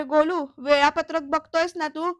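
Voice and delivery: mild retold yell. Girija giving Golu exam orders, mildly yelled. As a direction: imitate her calling out orders, half-strength. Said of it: "असं गिरिजा ओरडून सांगते".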